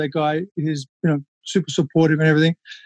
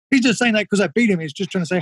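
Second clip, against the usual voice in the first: petty inner voice; 4 semitones higher, faster than usual. Retold or imitated. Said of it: "my little fucked up part of my brain that went".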